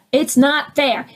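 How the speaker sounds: whiny victim. Pretend. Voicing a victim's complaint.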